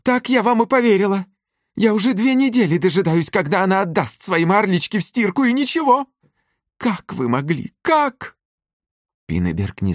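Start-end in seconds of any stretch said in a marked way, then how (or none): 0.0-8.4 much higher and louder, a shrill tirade; yelling. A narrator's reading. Old mother yelling at the suitor in her kitchen. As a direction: scream the accusation at him. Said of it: "орёт фрау Мёршель".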